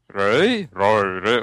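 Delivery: "Röi" tried over and over, pitch jumping then dropping; fumbled pronunciation attempts. Guest mimics getting tangled in the game's name, unsure. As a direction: grope for the vowel in "Röi". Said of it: "dann hat man sich daran verzettelt".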